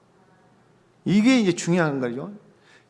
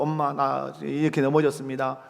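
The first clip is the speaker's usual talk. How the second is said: mock sorry child; 4 semitones lower, 4 dB quieter than usual. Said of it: "모레도 와갖고".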